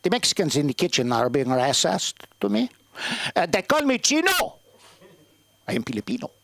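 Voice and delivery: lightly voiced aggrieved old man; a hint of the old man's indignation; father-in-law voice. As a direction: complain like an offended dad. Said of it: "I'm gonna do the voice".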